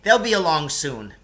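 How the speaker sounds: put-on calm the boys down; hint of Lance reassuring. Lance in the pit telling the boys help is coming, lightly voiced.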